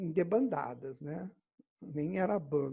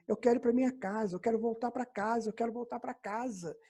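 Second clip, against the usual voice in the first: restrained mock yell, pitched up; retold inner cry; 5 semitones higher than usual. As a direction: replay an urgent inner cry without really shouting. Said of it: "comecei a gritar pra dentro de mim".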